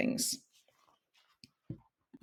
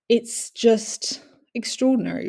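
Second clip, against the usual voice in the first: awed whisper; 4 semitones higher than usual. Real, not acted. A speaker describing her illness to carers, awed whisper. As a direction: drop to a sudden breathy whisper. Marvelling at the brain misfiring.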